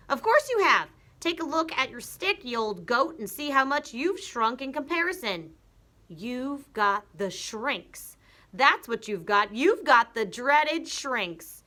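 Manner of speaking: husband diagnosing the shrinks; mocking Mr Twit. Mr Twit taunting.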